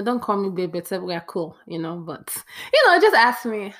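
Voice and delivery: ordinary delivery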